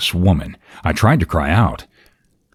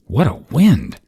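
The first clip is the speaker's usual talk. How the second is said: high, louder exclamation; crying out; 9 semitones higher, 5 dB louder than usual. A narrator's reading. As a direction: cry out about the wild weather, high-pitched. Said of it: "cried Madame Albert".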